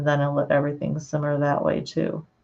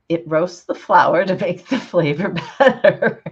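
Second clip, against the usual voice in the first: laughing through words; 5 dB louder than usual. Real, not acted. Laughing at Silence of the Lambs.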